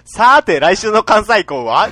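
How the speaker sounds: loud, drawn-out cheerful preview; Sazae-san preview voice. Acted. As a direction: stretch it slowly like a cartoon preview. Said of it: "愛知県平島さんから".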